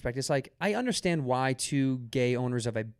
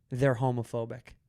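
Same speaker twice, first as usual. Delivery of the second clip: deadpan; 2 semitones lower than usual. Retold or imitated.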